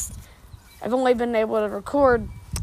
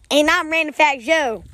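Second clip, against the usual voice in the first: Random Fact Joe voice; 5 semitones higher than usual. Acted. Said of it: "he just tones his voice differently".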